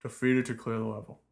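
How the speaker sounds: loud, dopey cartoon ogre bellow. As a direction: boom it out like a dumb brute. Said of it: "I was trying to do an ogre voice".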